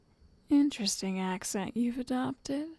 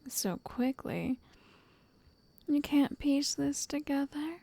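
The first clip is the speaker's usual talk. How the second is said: intimate whisper. Acted. Speaker taunts the darling sitting beside her, teasing whisper. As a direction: whisper like a sweet-voiced captor toying with her guest.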